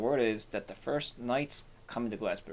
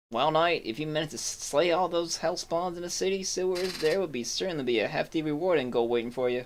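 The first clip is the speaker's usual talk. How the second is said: a loose, hammed-up Southern sheriff, pitched higher and louder; quasi southern accent; 5 semitones higher, 3 dB louder than usual. Streamer voices the sheriff promising the knight a reward, in a mock Southern accent. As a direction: play the sheriff with a half-baked Southern accent. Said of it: "quasi southern accent".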